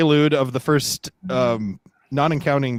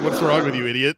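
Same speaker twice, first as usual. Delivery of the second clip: indignant. Retold or imitated. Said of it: "I'm being indignant".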